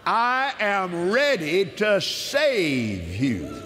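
slow, solemn reading of God's promises; measured devotional scripture reading; scripture proclamation. Acted. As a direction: proclaim each verse as a promise. Reads healing scriptures aloud.

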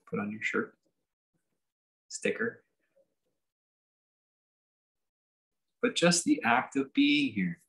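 unhurried meditation leader, long pauses between phrases; guided meditation. Real, not acted. Teacher settling listeners into just being here, guided meditation. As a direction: ease them gently into sitting, phrase by phrase.

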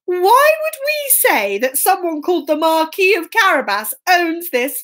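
slightly high, baffled question; puzzled woodcutters. Acted. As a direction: query it with mild disbelief.

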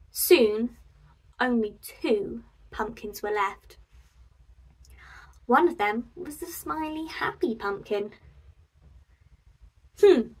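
put-on lively storybook reading for kids; story narration. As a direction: read it out like a cosy picture-book storytime. Reads a picture book to children.

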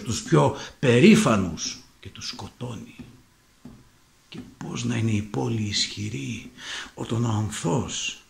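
declaimed tragic monologue, swelling and dropping in force; Theseus. Acted. Heroic king of Athens comparing democracy to tyranny, declaiming. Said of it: "here's the monologue".

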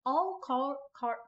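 a hint of country accent on car; drawn-out country car, barely voiced. Player trying to say card for her character, light country accent. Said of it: "trying to do the country accent on the word car".

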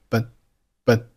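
"本" as English "but" with the t held back; unreleased t. Shown as a demonstration. Teacher showing lost plosion to learners, unreleased "but". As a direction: say a short "but" and stop before the t bursts. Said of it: "But结尾的t失爆".

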